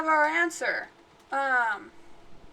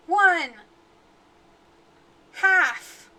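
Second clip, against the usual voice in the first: rising, louder slow-drawn countdown; tense countdown; 4 semitones higher, 4 dB louder, slower than usual. Real, not acted. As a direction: stretch each number out nervously. Dramatic countdown to ghost.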